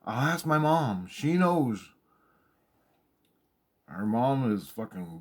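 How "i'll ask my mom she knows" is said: coworker's reply. Retold or imitated. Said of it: "And she goes".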